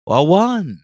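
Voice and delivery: high, slow counting puppet vampire; hammed-up vampire proclamation; Count from Sesame Street. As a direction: count it out with theatrical relish. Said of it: "sort of like the Count from Sesame Street".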